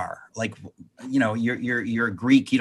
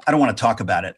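mildly arrogant; 2 semitones lower, much faster than usual. Retold or imitated. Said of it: "like, kind of arrogantly".

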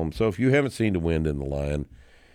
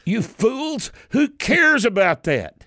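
exasperated outburst; 4 dB louder, slower than usual. Real, not acted. Mock outburst at the critics.

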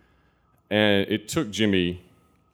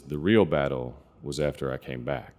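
a hint of a deep, raspy veteran voice; lightly voiced gravel-toned soldier; 5 semitones lower than usual. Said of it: "he has this deep, raspy voice".

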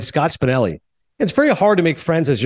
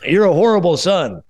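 measured radio-host impression with deliberate pauses; Casey Kasem. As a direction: imitate a countdown host scolding his son. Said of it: "who's been doing Casey Kasem".

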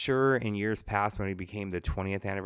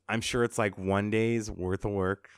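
sarcastic; 2 semitones higher than usual. Real, not acted. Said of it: "I'm being sarcastic".

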